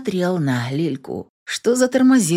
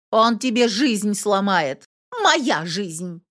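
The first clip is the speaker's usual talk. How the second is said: higher, heated shouting match; sisters' quarrel; 5 semitones higher than usual. A narrator's reading. Two sisters scream at each other on the porch.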